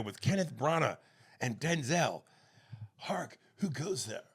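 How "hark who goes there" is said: Shakespeare line. Pretend. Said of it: "Much Ado About Nothing".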